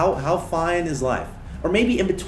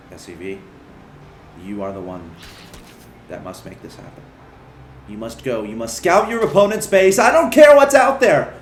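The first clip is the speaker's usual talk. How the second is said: building to a shout; 3 semitones lower, 6 dB louder than usual. Acted. Commander forcing the SCV to scout, hushed to yelling. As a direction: start hushed and grave, then explode into a yelled order.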